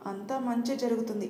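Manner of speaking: calm fatherly reassurance; reassuring. Acted. Father calmly reassures his worried son, gently. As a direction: soothe him, everything will be fine.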